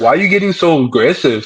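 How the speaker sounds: ordinary talk, nothing marked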